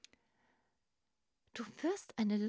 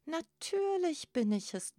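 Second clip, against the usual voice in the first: loud, higher-pitched booming reply; 8 semitones higher, 5 dB louder than usual. A narrator's reading. Giant crab answers little Grasper, booming. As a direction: boom it out proudly. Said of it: "dröhnte der Riese".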